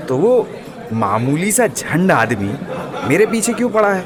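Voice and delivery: half-laughing at the silly name; laughing scorn. Acted. Veer laughing at the goon about his lowly boss. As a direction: chuckle through the question. Veer mocks the unknown enemy.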